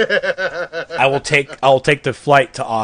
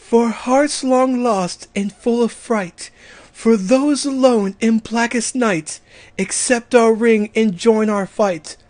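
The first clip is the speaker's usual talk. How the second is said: higher, slow and earnest female voice; 7 semitones higher, slower than usual. Acted. Reciting the Star Sapphire oath to listeners in a higher female voice. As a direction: lift the voice and recite it like a devoted heroine. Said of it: "I'm not gonna do it as a guy".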